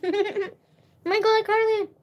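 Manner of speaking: high, loud laughing call of a name; excited laughing call. Real, not acted. Laughing as she calls out to Carly. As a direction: cry out her name, laughing.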